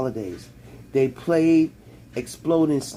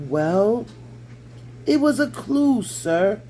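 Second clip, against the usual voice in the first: higher, eager little elf pleading its point; excitable house elf, pitched up; 7 semitones higher, slower than usual. A narrator's reading. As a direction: pitch up into a squeaky, earnest elf. Dobby the elf voiced.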